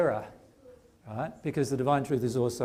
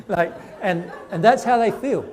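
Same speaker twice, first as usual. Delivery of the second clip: laughing; 6 semitones higher, 7 dB louder than usual. Real, not acted. Laughing at the spirits' scorn.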